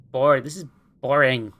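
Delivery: whiny bored complaint; complaining. Acted. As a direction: moan about being bored. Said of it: "Mars complains".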